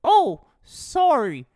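high, slow, meek stoner voice; timid goofy voice. Acted. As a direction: apologise like a sheepish doofus. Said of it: "Hempy fucking accidentally bumps into".

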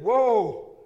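high, loud startled whoa; excited whoa. Retold or imitated. Preacher panicking as horse nears the cliff, loud yell. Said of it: "The preacher got excited and said".

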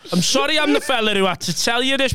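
put-on high voice for the apology; retold bad news. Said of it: "And he went".

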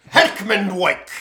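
"Heckmanwijk" said slow, high and loud as HECK-man-wike; proud pronunciation. Shown as a demonstration. Correcting the cohost, "Heckmanwijk" called out slow and loud. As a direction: announce "Heckmanwijk" slowly, stressing HECK, ending wike. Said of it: "Thank you".

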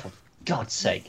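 low, soft, slow groan of exasperation; mock dejection. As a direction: sigh it out, deflated and let down. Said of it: "what is really sad".

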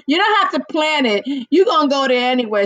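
playful teasing, quick; teasing laugh. Real, not acted. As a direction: rib him with a grin. Repeats tease laughing.

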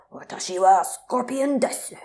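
high, put-on warrior declaration; mock-heroic Japanese proclamation; Scorpion in Japanese. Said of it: "he's just like".

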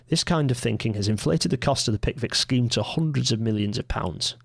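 lightly put-on Manchester accent, still mostly his own voice; dodgy Mancunian accent. Host reading a 1974 magazine quote aloud, in a faint dodgy Mancunian accent. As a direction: read the old editor's words with a hint of Mancunian. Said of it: "in my slightly dodgy Mancunian accent".

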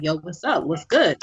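casual street greeting, lightly put on; real, switched-up voice. Shown as a demonstration. Co-host showing off her switch, casual real voice. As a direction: drop the politeness and keep it real. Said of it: "I switch it up and I'm just real like".

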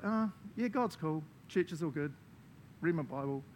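mock easygoing shrug, starting high and settling; complacent. Preacher mimicking lame Christian lives, complacent. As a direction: toss it off like it's all good.

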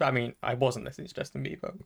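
talking through a burp; a burp slips into the words. Real, not acted. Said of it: "there's a burp right there".

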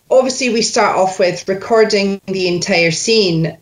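slipping into a Scottish accent. Real, not acted. Coach explaining the next step, unwitting Scottish accent. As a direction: let a Scottish accent creep into your own speech. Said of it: "I'm doing it in a Scottish accent".

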